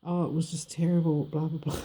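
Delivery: lightly put-on martyr's lament; mock woe-is-me. Woman imitating ex playing victim, mock woe-is-me. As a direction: mimic his self-pity, lightly mocking. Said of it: "wrist to his head and, and be like, "Woe is me".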